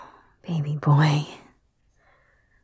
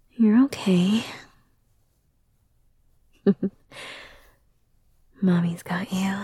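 put-on soothing a child. Comforting a child after a nightmare.

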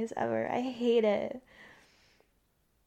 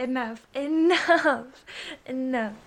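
being tickled; 6 dB louder than usual. Real, not acted. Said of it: "I'm too ticklish".

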